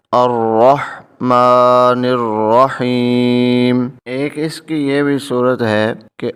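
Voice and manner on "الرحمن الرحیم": slow, joined tajweed recitation; full recitation. Shown as a demonstration. Teacher reading the whole verse together, slow recitation. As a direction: read both words together, slow and measured. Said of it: "اس کو پڑھیں گے اب پورا".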